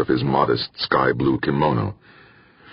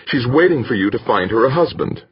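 temper rising; 9 semitones higher than usual. A narrator's reading. Bracknell answers the captain back, rising temper. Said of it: "Bracknell felt his temper rising".

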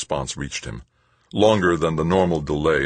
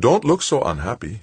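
higher, lilting tease with a touch of amusement; lightly amused; 8 semitones higher than usual. A narrator's reading. Sister teases the unhappy recruit, lightly amused. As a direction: cheer him up lightly. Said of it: "said with a little laugh".

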